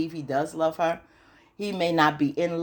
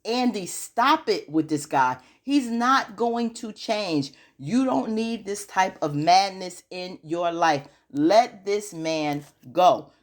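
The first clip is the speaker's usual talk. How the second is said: slow, drawn-out plea, a bit higher; slow pleading advice; 3 semitones higher, slower than usual. Retold or imitated. Recapper telling the woman on screen to leave the man, slow and pleading. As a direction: spell it out slowly like begging a friend. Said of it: "I'm like".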